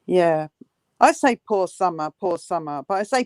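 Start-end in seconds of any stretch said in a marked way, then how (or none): 1.5-2.8 lower, sinking voice of sympathy; sincere pity. Real, not acted. Co-host pities Summer for having such parents, sincere. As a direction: say it low, meaning the pity. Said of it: "because she's got a father and a mother like that".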